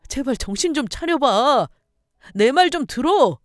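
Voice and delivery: high, loud insistence; urgent pleading. Acted. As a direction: beg them forcefully to listen. Husband restrains and begs wife.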